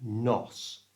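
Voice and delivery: "Nos" with a clear short O in the middle; clear O sound. Shown as a demonstration. Teacher modelling the strong first syllable, clear open O in "Nos". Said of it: "get a good O sound".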